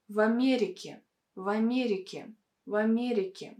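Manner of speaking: в Америке with final vowel between Э and И. Shown as a demonstration. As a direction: model в Америке, last E slightly reduced. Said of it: "as if it's something between".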